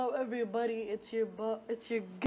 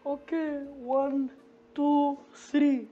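Breach voice; 5 dB louder than usual. Acted. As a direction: pitch way up as a cocky Breach. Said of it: "it's your boy Breach here".

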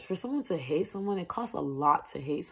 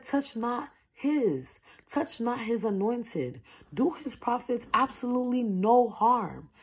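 solemn voice of the Lord; 7 semitones higher, 3 dB louder than usual. Retold or imitated. Quoting the Lord's warning to the enemies, solemn decree. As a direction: proclaim it like God's own command. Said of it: "the Lord said".

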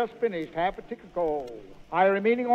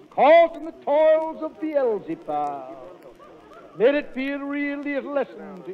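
hammed-up preacher against gambling; mock sermon; 2 semitones higher than usual. Con man faking a temperance sermon for the mayor, hammed-up preaching. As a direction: turn suddenly pious and preach it.

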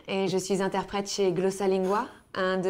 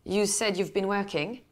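put-on French accent. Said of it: "this faux, faux French accent".

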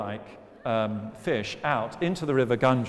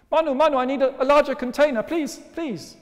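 squeaky fish voice; 14 semitones higher, 9 dB louder than usual. Acted. Fish begs for bigger tank.

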